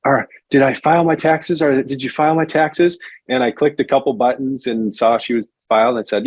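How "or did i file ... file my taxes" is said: higher-pitched imitation of a worried caller; a touch of nervous worry, retold; retold trepidation. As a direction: voice the anxious client, mildly. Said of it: "hear the trepidation or fear in her voice".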